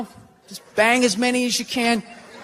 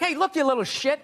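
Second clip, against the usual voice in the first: higher, indignant telling-off; hammed-up neighborhood grump yelling; mock angry scolding; 8 semitones higher, 3 dB louder than usual. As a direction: confront a kid messing with your car. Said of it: "you gotta be like".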